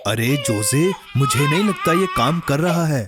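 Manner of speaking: half-laughing, half-crying; weepy exasperation; tearful. Acted. Friend despairs to Jose, half-laughing and tearful.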